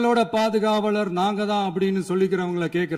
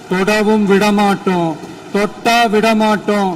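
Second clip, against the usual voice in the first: loud declaration; 5 dB louder than usual. Real, not acted. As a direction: thunder it like a political warning. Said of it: "சவுண்டா பேசுறேன்".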